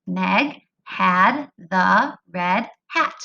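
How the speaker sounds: very slow, one word per count; word-counting read. Shown as a demonstration. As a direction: space out each word for finger counting. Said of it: "count on your fingers each time".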